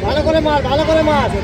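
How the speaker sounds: high, strained fan yell; yelling encouragement. Real, not acted. Spectator urging a shot.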